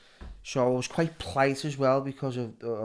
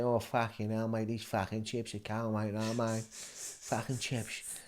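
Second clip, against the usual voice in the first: mock Cockney; 7 dB quieter, slower than usual. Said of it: "this Cockney thing".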